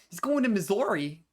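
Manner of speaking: lightly mimicked Southwestern accent; imitated Southwestern accent. Streamer echoing a game character, mock Southwestern accent. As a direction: echo the line with a hint of Southwestern. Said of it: "what accent is that?".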